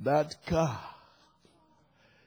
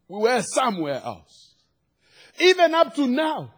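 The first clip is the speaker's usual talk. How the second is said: preaching; 7 semitones higher, 6 dB louder than usual. Real, not acted. Preacher to congregation on where grace found us, preaching. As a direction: preach it out with conviction.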